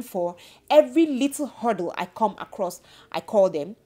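indignant retold rant to the client; upset rant. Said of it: "I was already upset".

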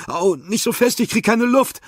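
high, strained protest; pained cry. Acted. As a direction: cry out, gasping for air. Squeezed too hard, can't breathe. (hoher, gequälter Aufschrei)

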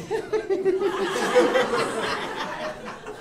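high-pitched imitated giggle; mock the parents' amused titter; parents' laugh. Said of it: "They're like".

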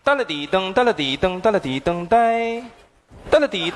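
ringtone imitation. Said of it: "口技呀".

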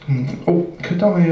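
a touch of nerves, feeling your way into asking; nervous. Acted. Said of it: "he's very nervous by now".

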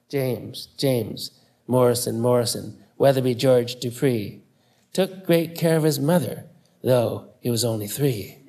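lightly sing-song reading of "James, James, Morrison, Morrison"; poem recital. Shown as a demonstration. Recalling mother's bedtime reading, gently sing-song rhyme. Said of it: "which begins like this".

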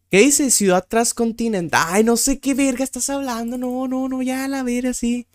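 high-pitched, whiny giving up; exasperated refusal. Real, not acted. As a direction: wave the question away in a high voice. Gives up on baffling question. (rechazo exasperado, agudo)

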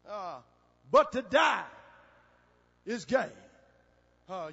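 loud bursts with pauses between phrases; punchy sermon delivery; emphatic preaching. Real, not acted. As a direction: preach the scripture, punching each key phrase.

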